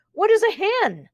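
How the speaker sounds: puzzled, pitched high; baffled. A narrator's reading. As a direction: ask in total confusion. Boy baffled by word.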